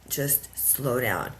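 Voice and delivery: very slow, deliberate; slow warning. Retold or imitated. Her body telling her to stop, slow. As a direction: draw out each word of the warning. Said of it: "my body said".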